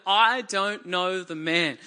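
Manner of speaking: slow, emphatic "I don't know the man"; deliberate, word-by-word denial of "I don't know the man"; sworn denial. A narrator's reading. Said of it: "call down curses and swore to them".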